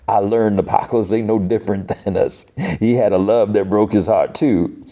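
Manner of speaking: badly faked Cajun accent; Gambit. Gambit woos Rogue, terrible hammy Cajun accent. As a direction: ham up a Cajun lover's speech. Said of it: "the worst Gambit accent ever".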